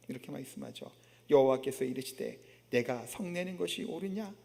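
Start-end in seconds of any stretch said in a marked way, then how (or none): 1.3-4.3 low, softened divine question; softly voiced, tender rebuke; gentle words of God. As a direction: ask it mildly, without reproach. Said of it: "부드러운 하나님의 말씀이죠".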